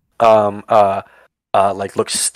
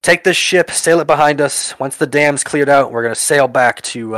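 raised, higher-pitched captain's order; captain yelling; 4 semitones higher than usual. Acted. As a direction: call out orders across the deck. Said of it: "you hear the captain yell out".

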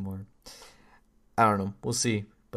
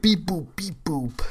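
slow, high mock robot beeps; robot beeping; 6 semitones higher, 6 dB louder than usual. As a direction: beep it out like a silly toy robot. Robot noises in Transformers bit.

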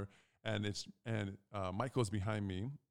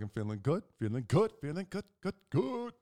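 building from near-usual to high and loud; imitated gleeful relief; 5 semitones higher, 4 dB louder than usual. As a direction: climb higher with each repeat, elated. Imitates relieved friend, building higher.

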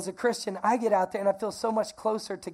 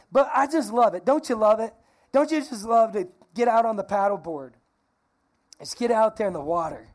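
excited gushing; 2 semitones higher, 4 dB louder than usual. Real, not acted. Pastor gushing to the congregation about paddleboarding, excited.

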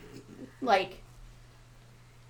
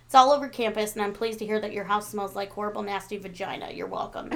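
reading a shout-out. Acted. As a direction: read out the complaint evenly, sink down on the sign-off. Reads out shout-out message.

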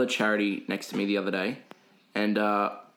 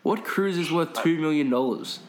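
higher-pitched retold bafflement; incredulous; 5 semitones higher than usual. Worker challenging the raffle lady's prize, incredulous retelling. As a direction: question it in mock outrage, pitched up. Acted disbelief at cruise prize.

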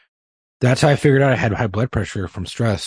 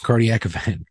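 laughing through it; 2 semitones higher than usual. Retold or imitated. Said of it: "and it was blinking".

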